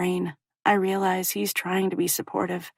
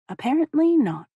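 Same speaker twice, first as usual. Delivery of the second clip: sarcastic; 8 semitones higher, 3 dB louder than usual. Acted. Sarcastic inner remark.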